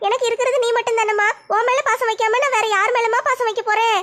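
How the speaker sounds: lightly voiced girl worried for her mother; a young daughter asking why mom cries; mild worry in a girl's voice; concerned daughter.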